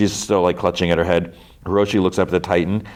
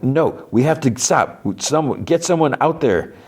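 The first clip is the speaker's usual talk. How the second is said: urgent protest; 7 semitones higher than usual. Retold or imitated. Acted urgent protest in the story.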